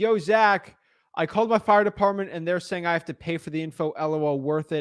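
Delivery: ordinary delivery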